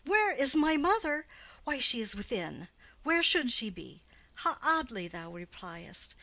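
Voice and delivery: exasperated. Acted. Juliet exasperated at nurse.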